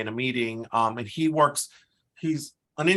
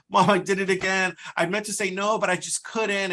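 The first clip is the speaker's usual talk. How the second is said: lightly acted, higher-pitched confession to mom; imitated millennial daughter; 6 semitones higher than usual. Millennial calling her mom after giving in, lightly acted guilty confession. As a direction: mimic a guilty daughter pleading her case. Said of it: "calling her mom. She's like".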